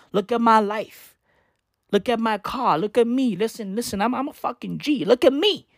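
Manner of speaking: mock arrogant boasting; show-off demanding to be looked at; lightly acted cocky bragging; a rapper. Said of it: "Lil Uzi's arrogance is wild".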